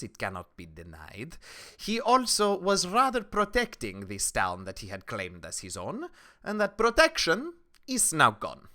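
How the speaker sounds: measured townswoman with emphatic swells; stern town protector. Acted. Townswoman corrects the adventurers about Shade, sternly. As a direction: lecture them, punching key phrases. Game master plays townswoman.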